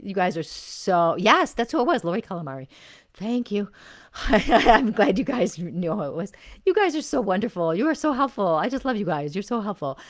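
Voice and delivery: loud, high, fast gushing thanks; real excited gratitude. Real, not acted. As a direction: burst out with delight at the chat. Excited thanks to live chat.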